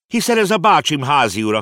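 a high, loud cry of recognition; startled exclamation. A narrator's reading. Konrád recognizes his uncle's landlord, exclaiming. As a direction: blurt it out in surprise. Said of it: "kiáltott fel Konrád".

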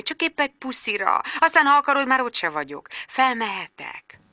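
soft, gentle pleading; tender, polite. Acted. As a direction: sweet-talk your way upstairs. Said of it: "a leggyöngédebb, legudvariasabb hangján".

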